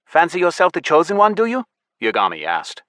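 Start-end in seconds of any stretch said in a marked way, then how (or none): 0.0-1.6 high, loud sneer; mock him from above. A narrator's reading. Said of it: "twisting his lip".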